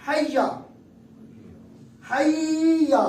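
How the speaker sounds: حیا; mock wrong reading. Shown as a demonstration. Teacher demonstrating the mistaken pronunciation. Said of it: "غلط ہے".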